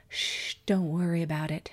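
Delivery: with a smile. Acted. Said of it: "his wife said with a smile".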